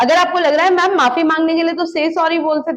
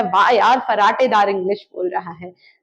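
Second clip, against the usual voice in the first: admiring remark; 5 semitones lower than usual. Retold or imitated. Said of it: "आपको लगता है".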